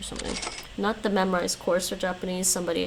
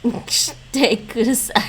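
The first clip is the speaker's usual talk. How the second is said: frustrated burst; 4 semitones higher, 10 dB louder than usual. Pretend. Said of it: "She says it so fast".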